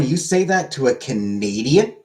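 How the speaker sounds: slow, drawn-out mock disbelief, rising at the end; mock indignation. Streamer to chat, defending Canadians with mock indignation. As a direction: stretch it out as if scandalised. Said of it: "I am offended".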